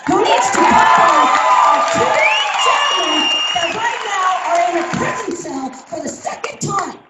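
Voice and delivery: fired-up plea at a town meeting; impassioned plea. Real, not acted. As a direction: push it out as a heartfelt plea.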